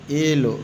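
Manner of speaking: येलो starting on a long 'ay'; wrong reading of yellow. Shown as a demonstration. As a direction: say येलो as 'ay-lo'. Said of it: "इसको येलो नहीं पढ़ेंगे". (गलत उच्चारण, येलो में लंबा 'ए')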